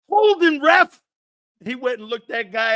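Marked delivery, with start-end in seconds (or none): 0.1-1.0 high, loud cry of holding; hammed-up penalty plea; mock yell for a flag. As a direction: shout it at the ref.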